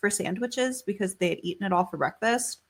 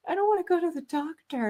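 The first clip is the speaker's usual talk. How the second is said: put-on whiny child; 10 semitones higher than usual. Daughter quoted crying.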